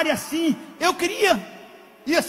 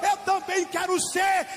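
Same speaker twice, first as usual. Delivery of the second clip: crying out; 4 semitones higher, much slower than usual. Acted. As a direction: beg to stop, voice rising high. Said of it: "O homem disse: "Para!".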